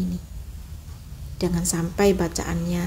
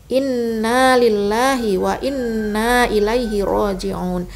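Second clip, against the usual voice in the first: model recitation; slower than usual. Shown as a demonstration. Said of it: "bacaan istirja".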